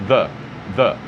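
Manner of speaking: The with the tongue between the teeth; English pronunciation. Shown as a demonstration. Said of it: "Linguinha entre os dentes". (The com a língua entre os dentes)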